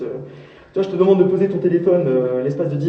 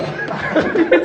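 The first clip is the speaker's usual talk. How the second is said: disbelieving laugh; 10 semitones higher, 4 dB louder than usual. Real, not acted.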